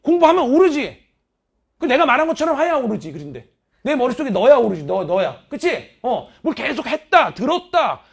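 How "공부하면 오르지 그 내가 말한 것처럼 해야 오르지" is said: loud, worked-up reply; indignant teacher shouting back at a student's doubt; excited retort. Retold or imitated. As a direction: fire back the answer all heated up. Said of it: "내가 막 흥분하면서 썼어".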